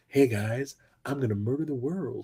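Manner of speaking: barely-there, very hushed, soft voice. Imitating a supposedly fearsome bad guy who isn't threatening: soft voice. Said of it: "talks in this soft voice".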